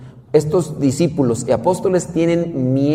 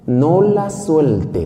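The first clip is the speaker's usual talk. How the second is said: each word drawn out very slowly; no la suelte, stretched out; slow emphatic instruction; 3 semitones higher, much slower than usual. Acted. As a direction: spell it out slowly so she remembers.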